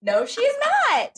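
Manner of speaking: high, incredulous squeal with a laugh; can't believe a sister said that; outraged disbelief. Retold or imitated. Retelling a fight with her sister, shocked high disbelief. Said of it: "in my mind, was like".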